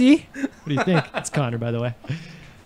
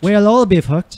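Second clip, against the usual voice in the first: trying an Irish accent; 2 semitones higher than usual. Shown as a demonstration. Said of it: "let me try it".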